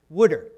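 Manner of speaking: "Wooder" with an oo sound in the first syllable; South Jersey pronunciation. Shown as a demonstration. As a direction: say "Wooder" the South Jersey way, rhyming its start with wood. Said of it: "W O O D E R".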